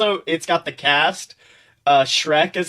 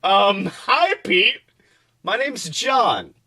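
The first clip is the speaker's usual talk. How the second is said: higher, hesitant introduction; nervous young man, much higher; timid John voice; 6 semitones higher, much slower than usual. Acted. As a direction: sound shy and unsure.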